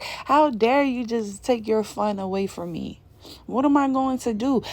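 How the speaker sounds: mock a clingy friend whining over lost fun; whiny mock complaint. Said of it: "They're like".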